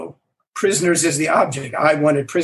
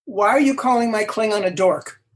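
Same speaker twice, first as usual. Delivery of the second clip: imitated director's yell; high-pitched retold shout to stop the take; Leonard Nimoy; 5 semitones higher than usual. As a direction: call out in mock outrage. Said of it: "Nimoy yells".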